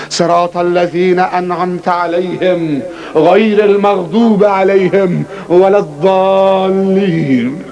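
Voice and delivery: slow, drawn-out chanted recitation of al-Fatiha; Arabic recitation in a measured chant; Quran recitation. Acted. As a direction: intone each verse slowly and reverently.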